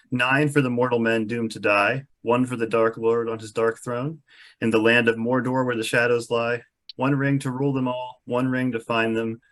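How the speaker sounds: measured, grave chant of the ring rhyme; solemn verse recital. Acted. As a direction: intone it like an old incantation.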